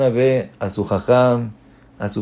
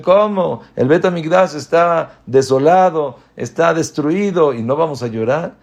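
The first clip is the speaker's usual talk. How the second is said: indignant disbelief; 5 semitones higher, 4 dB louder than usual. Retold or imitated. Disciples protest to Rabbi Akiva.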